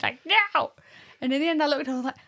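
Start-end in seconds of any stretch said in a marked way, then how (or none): 0.3-0.7 high, loud mock outburst of frustration; annoyed toddler. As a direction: imitate a small child at the end of her patience. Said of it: "she kept getting so annoyed".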